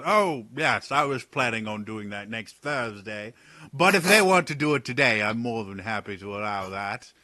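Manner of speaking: a wry noble teasing the jumpy guards; Talon's voice. Acted. Talon scolds the guards for their glaives, mock weary.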